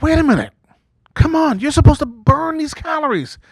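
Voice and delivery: mock protest. Comedian voicing himself to metabolism.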